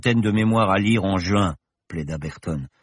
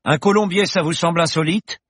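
bar regular's voice; 11 semitones higher, 5 dB louder than usual. Acted. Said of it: "une voix au fond du bar lança".

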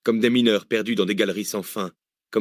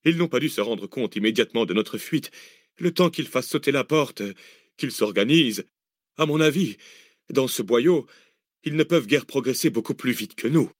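calm analytic man, raised pitch; reasoning Arsène; 3 semitones higher than usual. Acted. Arsène reassuring the others in the tunnel, calm reasoning. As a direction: work it out aloud.

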